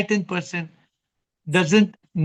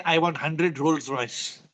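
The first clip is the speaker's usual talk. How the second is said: greedy wish; 4 semitones lower, 5 dB quieter, much slower than usual. Retold or imitated. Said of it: "will not say".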